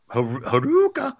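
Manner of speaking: high, drawn-out martial-arts cry; mock chop cry. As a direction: imitate a theatrical chop yell, stretched out. Imitates a wrestler's theatrical chop cry.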